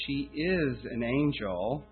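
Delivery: "is" lifted and leaned on; stress on is. Shown as a demonstration. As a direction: assert it by stressing "is". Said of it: "it's more emphatic to use it".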